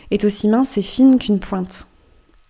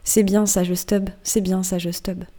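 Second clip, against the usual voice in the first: slow, chewed-over muttering that fades softer; mumbled refrain; 4 dB quieter, slower than usual. Acted. Old merman repeating his phrase to Stubb, slow mumble. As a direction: mumble it round and round like gums chewing. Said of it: "n'arrêtera jamais de mâchonner sa formule".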